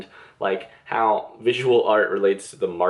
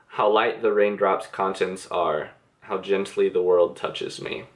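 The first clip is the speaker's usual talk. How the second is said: slow, slightly lowered poetry reading; poem reading; 2 semitones lower, slower than usual. Real, not acted. Reader sharing two favorite lines from a poem, slow recitation. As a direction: read the verse slowly and evenly.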